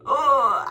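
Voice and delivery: loud, heavy groan of exasperation; frustrated groan. Real, not acted. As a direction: groan it out, really fed up. Groan at feeling out of place.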